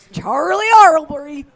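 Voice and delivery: hammed-up British accent repeating a name. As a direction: announce the name in an over-the-top British accent. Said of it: "Is that your British accent?".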